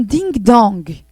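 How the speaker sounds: ding-dong drawn out very slowly; doorbell chime. Shown as a demonstration. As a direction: ring it out slow. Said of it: "O som da campainha". (campainha bem lenta)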